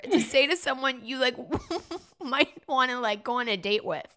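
giggling through the words; breaking up with laughter; trying not to laugh. Real, not acted. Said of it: "I'm losing it over here".

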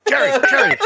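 high, insistent mock call; high-pitched imitated pleading for attention; retold calling out. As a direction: try to cut in on someone's rant. Trying to interrupt the ranting Jerry.

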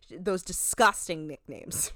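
slow, drawn-out disgust; mock disdainful. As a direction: lean on "Those" like a dramatic host. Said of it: "she says".

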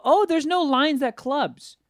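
high, slow, oblivious voice; drawn-out naive pretty-person voice; mock airhead voice. Mocking attractive people at clubs, airy mock voice. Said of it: "they go".

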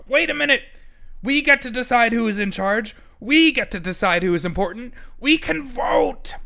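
high, loud rallying cry; the dog rallies the animals to vote, high and loud; excited dog rallying. A narrator's reading. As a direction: rouse the crowd with the big idea.

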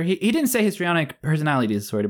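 ordinary talk, nothing marked

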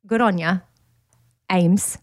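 light Australian accent, like the pastor; a hint of Australian in Good on ya and Ames; Australian accent done on request for a friend. Shown as a demonstration. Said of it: "can you do an Australian accent?".

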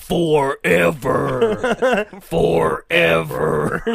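slow spooky drawn-out voice. Pretend. Mocking Sandlot line.

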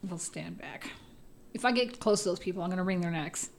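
hushed muttered threat; whispering. Real, not acted. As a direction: whisper it under your breath.

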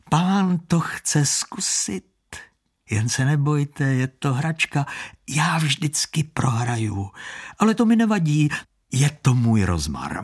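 a hint of a smooth street hustler, coaxing; lightly voiced hustler. Street hustler coaxing Standa to bet, lightly voiced. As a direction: coax the mark like a sly hustler. Con man luring Standa.

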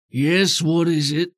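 low gravel vigilante growl. Acted. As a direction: gravelly boss voice behind a door. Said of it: "Roth's gravelly voice from inside say".

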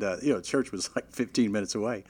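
ordinary delivery

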